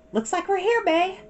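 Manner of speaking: put-on high young girl's voice; light, hopeful big sister.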